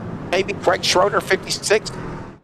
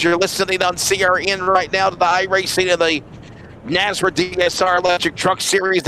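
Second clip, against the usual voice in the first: radio promo read. Acted. Reads a station promo.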